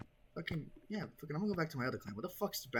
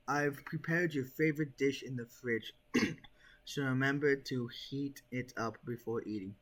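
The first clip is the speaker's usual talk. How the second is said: mother's letter; slower than usual. Acted.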